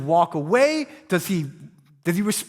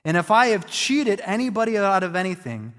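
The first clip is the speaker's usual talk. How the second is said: eager enthusiasm. Retold or imitated. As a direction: promise it gladly, no waiting. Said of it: "the kind of enthusiasm".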